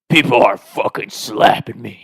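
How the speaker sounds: imitated outraged complaint; irate mock scream. Drunk friend complains to his buddies, irate mock scream. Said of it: "And he's screaming".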